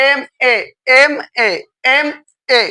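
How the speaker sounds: এমএ repeated as two separate letters, em and e; এমএ spelt out evenly, a gap between em and e; sounding out. Shown as a demonstration. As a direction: say এমএ three times, letters clearly apart. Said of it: "এ উচ্চারণ হচ্ছে".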